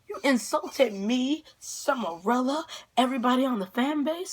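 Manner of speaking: dramatically offended on behalf of everyone; retold indignation. Acted quarrel with stepdad.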